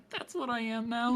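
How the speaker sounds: laughing in a dude voice; male voice. Acted. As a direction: stay in the guy voice, chuckling. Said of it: "your male voice".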